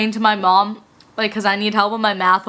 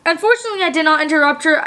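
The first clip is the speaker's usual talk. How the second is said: mocking teacher; 4 semitones higher, faster than usual. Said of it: "She goes".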